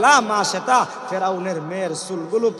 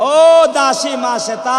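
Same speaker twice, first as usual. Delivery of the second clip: acted high-pitched summons; calling out; 7 semitones higher, 7 dB louder than usual. Pharaoh's daughter hailing her maid, calling out. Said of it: "ফেরাউনের মেয়ে ডাক দিয়া কয়".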